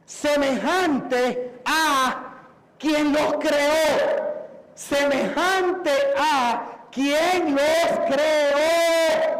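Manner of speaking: very slow, drawn-out proclamation; emphatic preaching. Real, not acted. Preacher repeats his key point to listeners, slow and emphatic. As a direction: stretch each phrase to drive it home.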